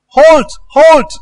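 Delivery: high ringing battle shout; commanders shouting halt. Acted. Commander yelling at fleeing soldiers, loud high shout. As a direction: call the fleeing troops back hard.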